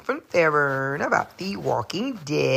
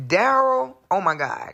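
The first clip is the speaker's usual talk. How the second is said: excited outburst; 6 semitones higher than usual. Real, not acted. Gushing about favourite character.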